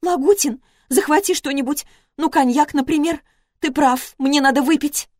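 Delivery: sniffling ex-wife pitifully asks for cognac; plaintive squeak. A narrator's reading. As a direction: squeak it out pitifully after a sob. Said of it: "жалобным голосом пропищала".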